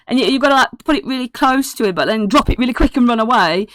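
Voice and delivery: lightly voiced eager boy; excitable kid. Kid tells Holland how to feed Oogly, lightly excitable. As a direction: instruct excitedly, a little high.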